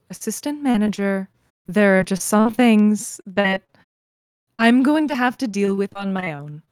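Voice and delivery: measured condescension through a smile; patronizing. Acted. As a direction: talk down to an underling, stressing key words. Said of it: "very patronizing smile and say".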